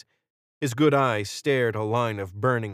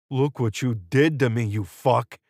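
screamed; 2 semitones higher, 4 dB louder than usual. A narrator's reading. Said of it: "he screamed".

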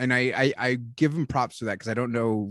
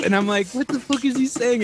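laughing disbelief; 10 semitones higher, 5 dB louder than usual. Retold or imitated.

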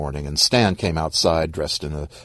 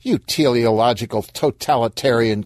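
mild acted shout, slightly raised; 4 semitones higher than usual. Corpse rounds on Stan, mildly shouting. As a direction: spit out the insult as a restrained shout. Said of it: "Corpse shouted".

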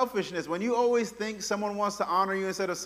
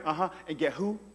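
startled question; 5 semitones lower, 7 dB quieter, faster than usual. Retold or imitated. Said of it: "He's like".

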